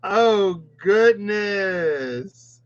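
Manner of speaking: slow, high, winded exclamation; breathless surprise. Real, not acted. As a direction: sigh it out, still amazed. Recovering from laughter.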